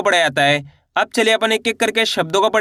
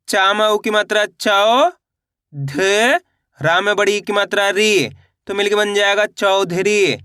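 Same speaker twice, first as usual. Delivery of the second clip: syllable by syllable. Shown as a demonstration. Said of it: "मैं किस तरीके से एक एक अक्षर का उच्चारण करके इनको पढ़ रहा हूँ".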